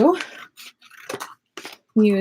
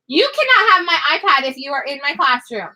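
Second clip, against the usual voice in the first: mean mommy voice; 6 semitones higher than usual. Real, not acted. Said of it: "That's my mean mommy voice".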